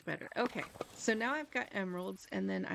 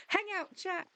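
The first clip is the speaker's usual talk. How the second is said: mock promo; 4 semitones higher than usual. Continuing mock notification ad.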